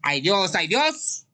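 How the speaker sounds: high mock cries to God; hammed-up worshippers calling on God; imitated churchgoers' pleading. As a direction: mimic pious wailing, rising each time. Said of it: "van a la iglesia y dicen".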